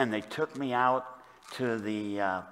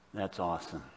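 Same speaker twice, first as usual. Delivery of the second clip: soft, lowered voice of wonder; hushed awe; 5 semitones lower, 7 dB quieter than usual. Acted. Psalmist marvelling to Heavenly Father, hushed awe. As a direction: drop it low and reverent.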